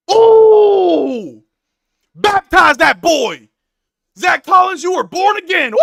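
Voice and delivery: loud, high and slow celebration; shouting fan celebrating a dunk; hype shout. Real, not acted. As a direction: roar it out like a preacher.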